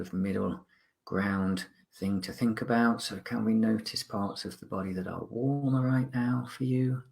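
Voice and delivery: calm, measured mindfulness guide with long pauses; guided meditation. Acted. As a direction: gently guide listeners to notice the present, unhurried.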